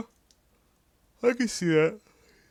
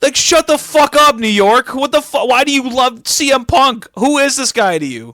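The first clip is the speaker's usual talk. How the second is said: higher, louder fed-up yelling; exasperated rant; 7 semitones higher, 3 dB louder than usual. Acted. Podcaster ranting at the Hammerstein crowd, loud exasperated yelling. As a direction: tear into the crowd, half joking.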